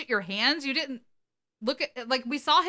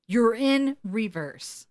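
drawn-out, slightly raised voice; mild mock yell; much slower than usual. Dean correcting Gary at the wheel, mild mock yell. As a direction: stretch it out as a restrained retold yell. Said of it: "And then Dean yells at him".

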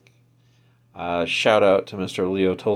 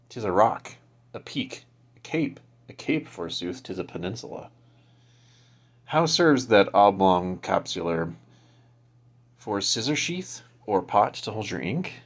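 hammy stage actor. Acted. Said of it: "I have a little excerpt here".

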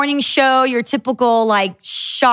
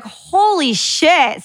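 slow, drawn-out holy shit, pitched up; stunned disbelief; 5 semitones higher, much slower than usual. Retold or imitated. Finding out the DJs leaked her number, slow stunned holy shit. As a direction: let it stretch out in shock. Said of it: "And we're like".

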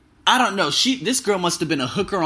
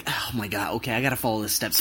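holding back a shout; 7 semitones lower, 8 dB quieter than usual. Real, not acted.

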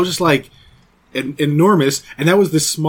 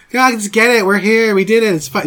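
imitated wife nagging in Queens Jewish accent, higher at first; mock Queens Jewish accent; 5 semitones higher, 3 dB louder than usual. Husband imitating his wife talking sense to him, mock Queens Jewish accent. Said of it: "that's how she sounds in my memory".

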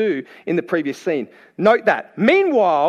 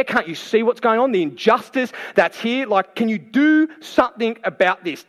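higher-pitched exasperated pleading; worked-up Martha; 4 semitones higher than usual. Acted. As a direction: plead indignantly, building a string of complaints. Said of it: "she's getting all worked up".

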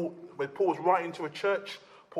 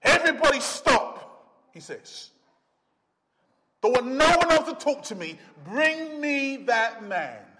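commanding Jesus; 3 semitones higher, 3 dB louder than usual. Acted. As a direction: stop the whole crowd. Jesus halts the procession.

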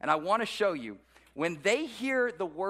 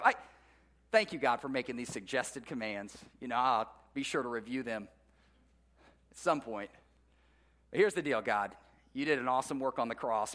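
patronizing prayer; 6 semitones lower than usual. Retold or imitated. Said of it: "it sounds something like this".

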